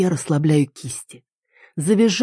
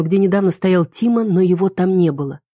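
plain reading voice

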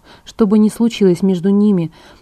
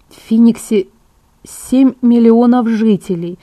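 slightly higher, measured emphasis; readily informative; 3 semitones higher, 5 dB louder, slower than usual. A narrator's reading. Bella readily supplies a fact to back her plan, confident. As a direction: offer the fact readily, as a counterargument. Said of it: "с готовностью сообщила я".

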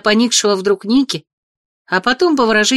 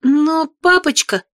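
upset plea; 7 semitones higher, slower than usual. Acted. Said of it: "встрепенулась расстроенная девушка".

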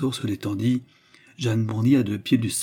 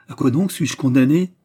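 louder, indignant demand; explosive outcry; 3 semitones higher, 6 dB louder than usual. A narrator's reading. Accused demands her sentence from the clerk, exploding. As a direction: burst out with the question. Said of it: "s'écria Jeanne avec explosion".

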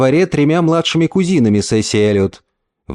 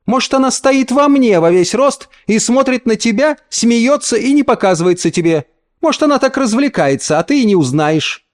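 higher, mocking mother; ironic taunt; 9 semitones higher than usual. A narrator's reading. Mother taunts the uncle with a crooked mouth. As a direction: tease him cruelly. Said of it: "Она иронически скривила рот".

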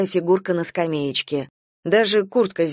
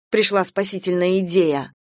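plain reading voice

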